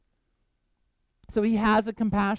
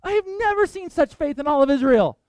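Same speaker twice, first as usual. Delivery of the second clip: amazed Jesus; 9 semitones higher than usual. Retold or imitated. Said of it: "And Jesus is like".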